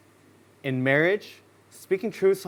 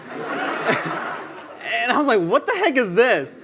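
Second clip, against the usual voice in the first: higher, drawn out, laughing through it; laughing outrage; 7 semitones higher, much slower than usual. Retold or imitated. Speaker reacting to his grinning friend, slow laughing outrage. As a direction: stretch it out in amused shock.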